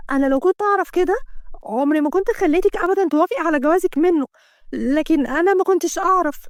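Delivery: a touch of an outraged friend; indignant friend. Acted. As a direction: scold the situation in shock.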